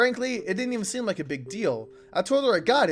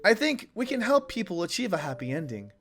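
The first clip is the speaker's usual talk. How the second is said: earnest character voice. Acted. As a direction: speak it like a hopeful confession. Reads game character dialogue.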